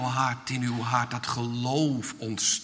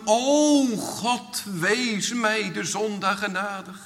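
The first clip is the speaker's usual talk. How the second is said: calling out; 6 semitones higher than usual. Acted. Sinner calling to God for mercy, pleading cry. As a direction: call on God, then sink into pleading. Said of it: "Dan hoort de Heer je roepen".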